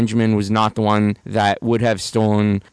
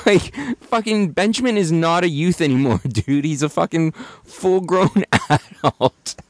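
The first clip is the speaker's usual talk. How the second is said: laughing; 5 semitones higher than usual. Real, not acted. Laughing at the song lyric.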